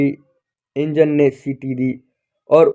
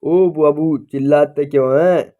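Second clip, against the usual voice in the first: startled; 2 semitones higher, 4 dB louder than usual. Acted. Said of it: "Pathan चौंक कर बोला".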